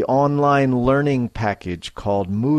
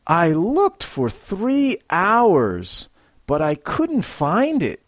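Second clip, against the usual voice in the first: higher, slow, stretched out; expressive frustration; 5 semitones higher than usual. Shown as a demonstration. Teacher modelling a lost-item complaint, with feeling. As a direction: let the frustration show. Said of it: "a little more feeling and life".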